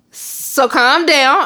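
soothing mom. Retold or imitated. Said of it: "I can hear this in her voice".

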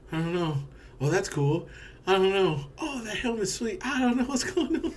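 rising giddy excitement; excited. Retold or imitated. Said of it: "I was just so excited".

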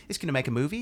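soft mock Kiwi accent. Podcaster mimicking director planning a movie, Kiwi accent. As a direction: imitate a New Zealander, quietly. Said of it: "with his little Ki-, Kiwi accent".

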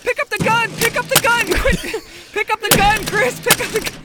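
high frantic urging; panicking gamer. Acted. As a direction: urge him on in panic.

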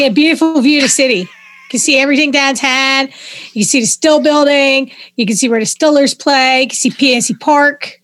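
Pittsburgh accent. Shown as a demonstration. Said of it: "you have your own language in Pittsburgh".

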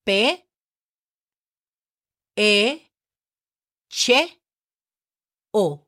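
P, E, CHE, O said one by one with long pauses; Spanish letter names. Shown as a demonstration. Teacher spelling pecho for beginners, Spanish letter names. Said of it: "spelling this word in Spanish, listen".

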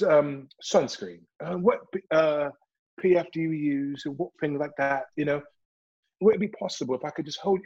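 a light proper British accent. Shown as a demonstration. Telemarketer charming a customer on the phone, light British accent. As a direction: put on a polite British accent. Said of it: "that British accent".

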